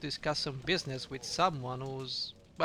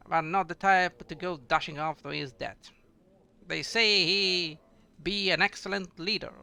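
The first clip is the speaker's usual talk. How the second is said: a hint of a gruff dwarf, loud and hearty; lightly voiced boisterous dwarf; bad dwarf voice; 4 dB louder than usual. Dwarf greeting a traveler at the bar, hearty and loud. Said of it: "I do the dwarf voice really shittily".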